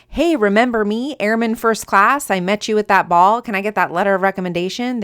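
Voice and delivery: mock eager request. Airman imagining an email to a general, mock eager. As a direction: imitate a presumptuous note to a superior.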